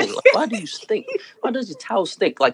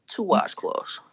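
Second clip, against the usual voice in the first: whispered emphasis; 8 dB quieter, slower than usual. Real, not acted. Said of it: "repeating the tip for emphasis".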